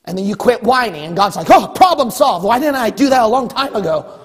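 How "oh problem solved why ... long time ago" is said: higher, lightly acted realization; pleasantly surprised God. God seeing the whining has stopped, mock pleased surprise. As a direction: play sudden mock relief.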